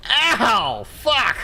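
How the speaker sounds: high, loud cry of getting hit; real pained gamer outburst; startled yelp. Real, not acted. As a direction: yelp and curse at a sudden hit. Gets hit in the game.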